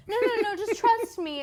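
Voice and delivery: high, loud overeager reassurance; hammed-up, pushy insistence; imitating insistent date. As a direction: override the objection excitedly.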